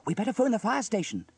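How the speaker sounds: put-on high, loud urgent child; urgent cry. A narrator's reading. James reacts to the fire, urgent. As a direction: cry out a plan in alarm. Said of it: "cried James".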